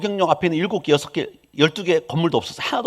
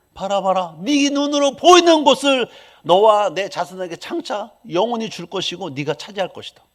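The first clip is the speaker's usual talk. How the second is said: voicing God; 2 semitones higher, 4 dB louder than usual. God's promise quoted.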